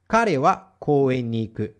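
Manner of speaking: slow careful repeat of Kare wa koen ni iku; slow model repeat. Shown as a demonstration. Teacher repeats the example slowly for students to copy.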